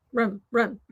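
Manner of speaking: room said with a long drawn-out Southern oo; Southern speaker stretching room for her friend. Shown as a demonstration. Drawled Southern room. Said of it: "I love the way you say the word room".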